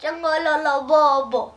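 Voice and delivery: giggling through the words; laughing. Pretend. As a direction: laugh as you finish the phrase. Playing with the funny word.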